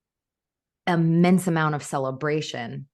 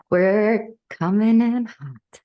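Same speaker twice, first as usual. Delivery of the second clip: high, loud, slow announcement; playful entrance; 6 semitones higher, 7 dB louder, slower than usual. Acted. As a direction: call it out with playful swagger.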